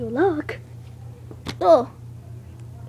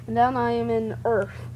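ordinary talk, nothing marked

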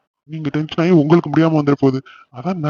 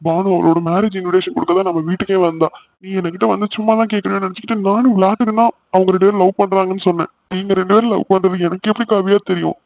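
higher-pitched, upset explaining; tearful; 4 semitones higher than usual. Acted. Brother blaming himself for sister's attempt, mildly tearful. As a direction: explain yourself on the edge of tears. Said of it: "அழாதண்ணா".

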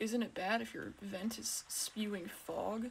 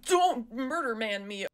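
loud, slow, drawn-out plea; panicked plea; 3 semitones higher, 8 dB louder than usual. Real, not acted. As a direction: cry out to fend off the killer. Pleading with the game's killer.

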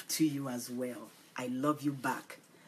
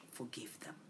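soft whisper; 2 semitones lower, 13 dB quieter than usual. Real, not acted. Preacher gently pleading with listeners to forgive. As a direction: drop to a near whisper.

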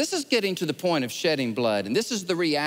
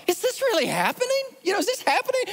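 disbelief; faster than usual. Retold or imitated. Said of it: "I was like".

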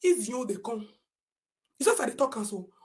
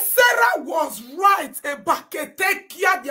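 slow, louder scornful line; sarcastic shout; slow mocking shout; 4 semitones higher, 4 dB louder, slower than usual. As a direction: spell it out in disgust.

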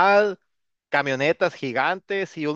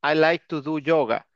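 "do" and "like" stressed, slow; slow classroom example. Shown as a demonstration. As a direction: model each sentence slowly. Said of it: "por ejemplo".

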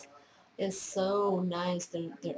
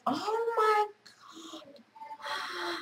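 drawn-out awe; 9 semitones higher, 4 dB quieter, much slower than usual. Real, not acted. Stunned by the gift.

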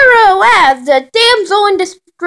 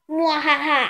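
villain laugh; 9 dB quieter than usual. Pretend. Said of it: "I'm an evil villain".

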